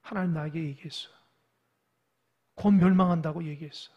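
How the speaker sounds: low, subdued insistence; tearful protest, acted. Weeping prophet answering the false prophet, subdued sorrow. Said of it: "예레미야가 눈물을 흘립니다".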